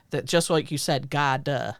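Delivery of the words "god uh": GOD with an extra "uh" tacked on; added vowel. Retold or imitated. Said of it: "stressing certain vowels that aren't there".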